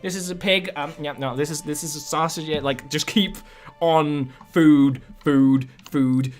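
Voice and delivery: lightly voiced eager halfling hosts; pushing food on the big guy; cheery hosts. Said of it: "they're like".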